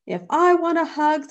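high, loud owl voice; wise owl. A narrator's reading. Wise owl advising a bear from its tree, knowing. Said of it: "said a wise owl".

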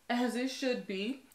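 chuckling through the words; laughing. Real, not acted. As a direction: say it with a little laugh. Laughing at own shine joke.

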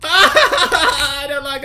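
long, loud, high wobbling wail into words; horrified wail. Real, not acted. Player recoiling from the spider, horrified wail. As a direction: wail out your disgust.

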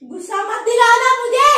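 annoyed warning. Real, not acted. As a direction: warn them not to push you. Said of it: "बहुत आता है।".

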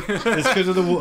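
high, laughing mock Brooklyn accent; giggly imitation of Brooklyn speech. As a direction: parrot the Brooklyn guide through laughter. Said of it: "She had the proper accent".

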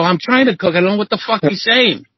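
high, exasperated retort; flustered protest. Retold or imitated. New cook snaps back at the chef, high and exasperated. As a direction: defend yourself, overwhelmed.

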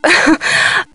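short breathy chuckle; a brief, easy little laugh; light chuckle. Acted. Curator to her new deputy, light chuckle.

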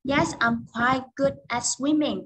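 said slowly and clearly; slow model answer. Shown as a demonstration. Teacher models a sample answer slowly. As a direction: read the answer slowly for the class. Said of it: "Ví dụ".

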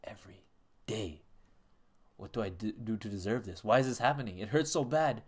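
pleading, tearful plea to mama; hammed-up sobbing plea; mock tearful letter. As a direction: read the letter like a crying child begging. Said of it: "Yo, you sold that".

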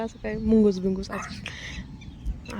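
slow whisper, barely voiced; whispered guess. Real, not acted. Mother whispers her guess about a mongoose to her son. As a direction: hush so the animal won't hear.

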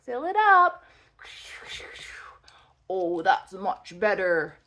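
whispering. Pretend. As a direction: whisper like a secret to the car. Filling the car with gas.

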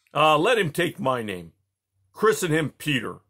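loud, high, hearty king; hearty royal bellow; booming jovial Tsar. Acted. Peter decides the name.

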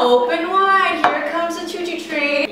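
put-on sing-song baby-feeding voice; airplane spoon game. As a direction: coax like feeding a toddler. Feeding friend like a toddler.

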